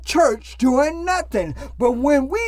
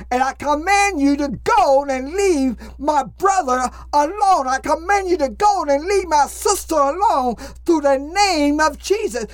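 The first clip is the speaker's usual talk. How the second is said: preaching at full force. Acted. Casts out demons in prayer.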